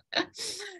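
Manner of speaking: short high embarrassed laugh; embarrassed giggle. Real, not acted. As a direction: giggle at your own slip. Laughs after stumbling over names.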